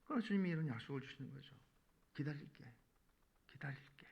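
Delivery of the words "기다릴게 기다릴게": gentle promise. Acted. The Lord telling burdened people he will wait, hushed promise. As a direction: say it softly, fading almost to a whisper.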